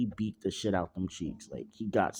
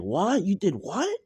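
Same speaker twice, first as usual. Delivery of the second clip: shocked Nami; 9 semitones higher, 4 dB louder than usual. Acted. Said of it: "As she's like".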